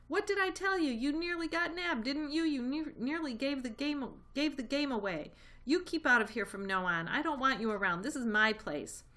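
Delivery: high, loud shrieking tirade; a rat shrieking a scolding. A narrator's reading. Rat shrieks at Mister Fox, loud and high. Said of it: "and shrieked".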